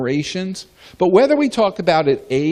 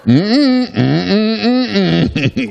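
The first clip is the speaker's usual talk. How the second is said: playful refusal; 5 semitones higher, 5 dB louder, much slower than usual. Real, not acted. Teasing younger colleagues about not leaving.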